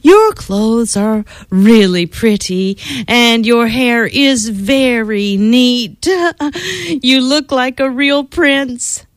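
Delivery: slow, sugary praise turning blunt; butter him up then cut him down; mock sweet princess. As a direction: princess teasing the vain prince.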